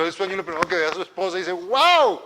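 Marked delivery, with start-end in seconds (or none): 1.5-2.2 high, swooping exclamation of wonder; amazed wow. Acted. Adam seeing his wife for the first time, amazed. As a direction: let the wow rise high in awe. Adán ve a su esposa.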